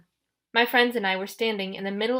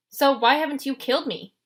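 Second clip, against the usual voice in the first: defiant retort; 5 semitones higher, 4 dB louder than usual. A narrator's reading. Percy defying Ares, louder retort. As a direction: snap back defiantly. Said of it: "I shot back".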